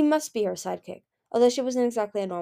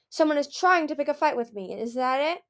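raised-pitch indignant challenge; angry demand; 6 semitones higher than usual. A narrator's reading. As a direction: challenge whoever is picking a fight. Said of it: "Peril demanded".

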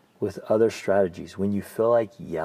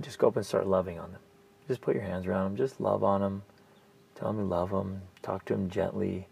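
softer, tender coaching voice; gentle advice; 6 dB quieter than usual. Shown as a demonstration. Coach to client, soft tender advice. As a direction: ease down and talk gently, like soothing a child.

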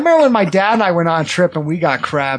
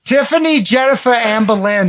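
high hollered list of names; calling out names; 4 semitones higher than usual. Acted. Parent hollering for the kids, mock yell. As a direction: yell for the whole family.

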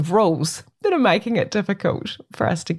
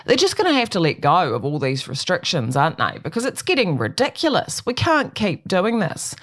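lightly mocking imitation of a know-it-all; mimicking voice. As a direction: parrot their smug logic back, half-mocking. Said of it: "mimicking voice".

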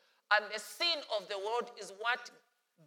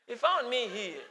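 laughing through the Nyanja line; amused laughing Nyanja-accent line; laughing repeat. Acted. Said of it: "singing a Nyanja accent".

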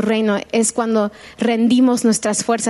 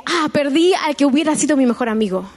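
tone of lament; 3 semitones higher than usual. Shown as a demonstration. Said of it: "ahora con un tono de lamento".

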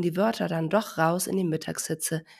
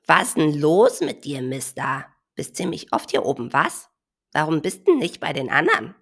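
nosy bird; 5 dB louder than usual. Acted. Bird questions elephant.

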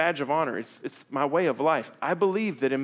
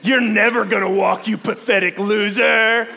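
hammed-up mean yell, louder and higher; mock berating; 6 semitones higher, 7 dB louder, slower than usual. Parent to fallen toddler, hammed-up cruel scolding. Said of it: "and go".

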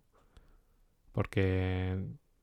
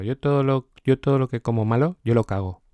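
cocky boast; 3 semitones higher, 5 dB louder than usual. Retold or imitated. To María about junk food, loud cocky boast. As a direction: brag it off loudly to her.

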